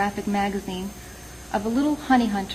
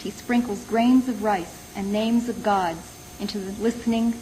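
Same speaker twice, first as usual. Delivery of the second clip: deliberate recital, pausing after each image; poem reading. Acted. Poet reads the honey hunter of Nepal poem to listeners, measured recital.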